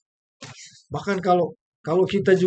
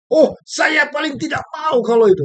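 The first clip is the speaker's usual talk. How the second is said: higher, louder mock whine; mock complaint; 7 semitones higher, 4 dB louder than usual. Preacher mocking a believer's complaint, in a higher whine. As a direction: mimic someone who swears they hate it. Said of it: "Jangan bocor-bocorkan kelemahan Anda".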